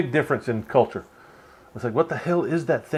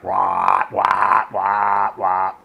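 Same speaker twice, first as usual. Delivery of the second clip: imitated engine noise; 4 semitones lower, 5 dB louder, much slower than usual. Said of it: "this thing is loud too".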